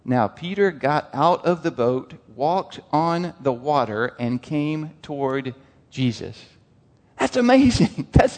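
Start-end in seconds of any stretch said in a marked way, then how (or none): 0.0-6.4 slow and quieter, each phrase weighed; slow deliberate reread. Shown as a demonstration. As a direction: let every word land slowly. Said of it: "Think about that for just a second".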